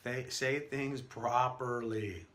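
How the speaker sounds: very slow, every word spelled out; slow and enunciated. Shown as a demonstration. Coach showing students how to slow down, carefully enunciated. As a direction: say each word carefully, taking your time. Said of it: "Slow down, enunciate".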